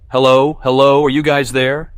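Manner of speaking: loud, high, losing it on the phone; frantic holler. A narrator's reading. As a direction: yell into the phone, unravelling. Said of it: "he hollers, losing it".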